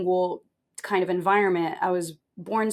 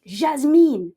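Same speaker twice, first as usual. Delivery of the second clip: loud, higher call of a name; stern teacher; 6 semitones higher, 6 dB louder than usual. Retold or imitated. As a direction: call her out like a strict teacher. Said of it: "She'd be like".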